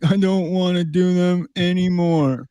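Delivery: high, slow undead whine; Jiangxi voice. Acted. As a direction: drag it out like a reluctant hopping corpse. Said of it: "Not a bad Jiangxi voice".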